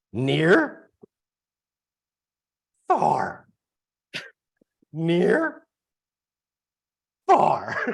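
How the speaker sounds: badly done puppet monster voice, swooping up and down. Urged by the other speaker on a podcast, doing a really bad Grover imitation. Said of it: "I do a really bad Grover imitation".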